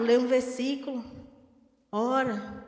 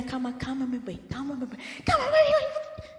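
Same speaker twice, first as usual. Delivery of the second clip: wife calming him. Retold or imitated. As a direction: soothe him, then get shrill and desperate. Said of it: "Aí a mulher vem".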